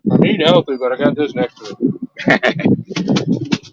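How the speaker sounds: chewing while talking; words round a bite of apple; mouth full. Real, not acted. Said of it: "The speaker is munching on an apple".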